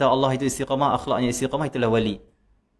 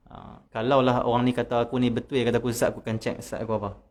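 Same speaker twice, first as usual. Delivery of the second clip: ordinary delivery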